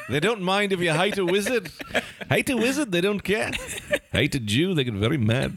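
put-on Scottish accent. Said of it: "It slips into Australian".

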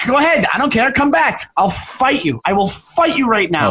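high, pushed taunt shouted after him; goading the walking-away heckler, high and heated; frenzied challenge. Retold or imitated. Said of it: "I'm like".

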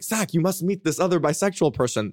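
put-on a clumsy, over-the-top French accent; bad French accent. Quoting the older French couple in a terrible French accent. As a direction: ham up a French accent, badly. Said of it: "worst French accent that's ever existed".

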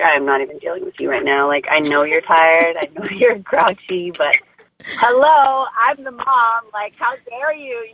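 mock indignant scolding. Exhausted mom scolding her grouchy baby, mock indignant. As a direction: play the fed-up mom, half joking.

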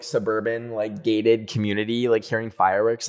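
normal talking voice

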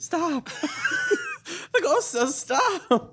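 slow, drawn-out ghost voice; spooky ghost voice. Pretend. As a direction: play the ghost, stretch it out. Mock Ouija ghost answer.

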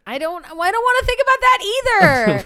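high, loud, grossed-out cry; disgusted outburst. Real, not acted. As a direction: recoil from the thought out loud. Disgusted reaction to lyrics.

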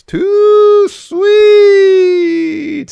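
screeched high and loud, mocking; mock the catchphrase with a yelled, sneering squeal; sarcastic Too Sweet. Co-host retells Finn mocking the O C, sarcastic shriek. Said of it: "real sarcastically".

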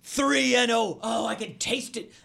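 excited gasp fading to a savoring murmur; retold excitement. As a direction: relive the thrill of almost winning. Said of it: "I'm straight up excited".

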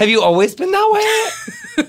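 laughing, high-pitched disbelief. Real, not acted. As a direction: tease her while cracking up. Laughing teasing question to guest.

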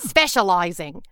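slow put-on Australian accent. Shown as a demonstration. Karen showing off to an Australian, slow put-on Australian accent. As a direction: draw the word out in a comic Australian accent. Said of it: "How's my Australian accent?".

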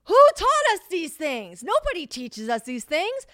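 high, loud, slow whining complaint; a young adult indignantly blaming everyone else; whiny protest. Retold or imitated. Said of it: "And I was like".

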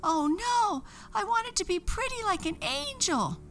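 high, anguished witch cry; high despairing witch voice; horrified wail. A narrator's reading. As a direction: lament the lost beauty. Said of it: "she was horrified".

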